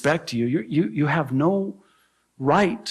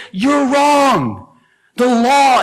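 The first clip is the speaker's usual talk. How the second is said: higher, louder shouted rebuke; pretend tirade shout; 9 semitones higher, 6 dB louder, slower than usual. Paul's imagined rebuke of his accusers, shouted. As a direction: bark it at the crowd. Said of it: "could have went on a tirade and said".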